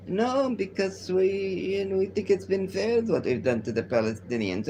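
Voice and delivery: mild mocking impression of the official; imitating the official. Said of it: "This is exactly how he sounds".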